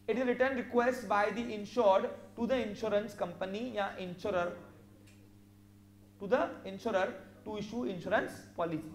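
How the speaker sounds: slow, word by word dictation. Shown as a demonstration. Teacher dictating a definition to students, slow and measured. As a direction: spell it out so students can write.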